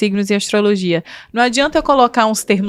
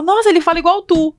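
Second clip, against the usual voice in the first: higher quoted exclaim; surprised follower; 6 semitones higher than usual. Retold or imitated. Follower telling her about a lookalike, higher and amazed. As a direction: sound amazed at the likeness.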